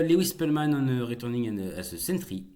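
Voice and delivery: halting English in a French accent; degraded English accent. Real, not acted. Streamer reading a headline aloud, in faltering French-accented English. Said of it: "Pourquoi mon accent anglais se dégrade".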